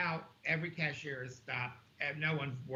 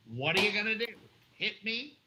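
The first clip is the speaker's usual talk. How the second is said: higher-pitched, challenging questions; retold taunting dare; 6 semitones higher, 3 dB louder than usual. Shopper retelling getting in the manager's face, taunting.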